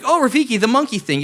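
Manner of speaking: high, bright-eyed fake delight; mock recognition. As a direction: act like you just remembered. Faking recognition.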